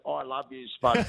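soft little croak; quiet, croaky affectionate mumble. Retold or imitated. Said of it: "that little croaky voice".

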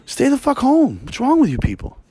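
high, sharp call to stay home; exasperated yell. Real, not acted. Scolding people who ride trains while sick, a high exasperated yell. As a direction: shout it at the crowd.

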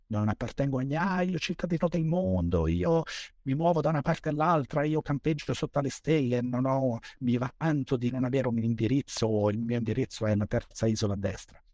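a hint of the proud nomad bragging; smug globetrotter. Mocking the world-citizen type.

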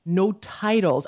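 usual speaking voice

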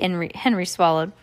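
ordinary delivery

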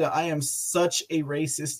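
usual speaking voice

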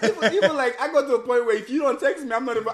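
half-laughing "how do you even do that"; laughing disbelief. Real, not acted. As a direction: laugh it out, high and incredulous.

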